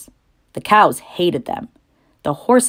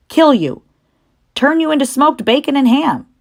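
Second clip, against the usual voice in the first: higher, louder blunt sheep; old sheep voice; 9 semitones higher, 4 dB louder than usual. Acted. Old sheep tells Wilbur his fate, higher and louder. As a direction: spell out the grim news with relish.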